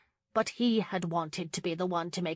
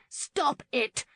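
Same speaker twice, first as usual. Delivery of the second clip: even higher, pressing cry as she pushes him down; second, higher plea to stop; 8 semitones higher than usual. A narrator's reading. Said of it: "Lauren cried".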